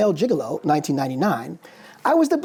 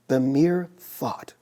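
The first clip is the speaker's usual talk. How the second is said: deliberate repetition; 5 semitones lower, much slower than usual. Real, not acted. Lecturer repeating Fanon's words to the audience, slow emphasis.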